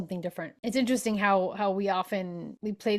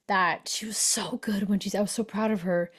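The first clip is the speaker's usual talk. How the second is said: whispered aside. Real, not acted. Confiding aside about a woman.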